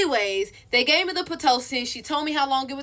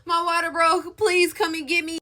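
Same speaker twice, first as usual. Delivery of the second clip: put-on needy girlfriend voice; 5 semitones higher than usual. Mocking the usual needy call.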